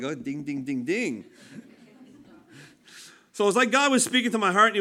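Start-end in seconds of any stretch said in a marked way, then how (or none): 0.0-1.2 low, soft playful ding-ding with a laugh; a gentle, amused God ringing the bell; God's voice. Retold or imitated. God teasing the preacher, low and amused. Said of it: "God's like".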